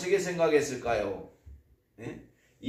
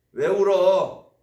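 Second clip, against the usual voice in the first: why are you crying; 3 semitones higher, 7 dB louder, slower than usual. Retold or imitated. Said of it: "주변에 있으면은".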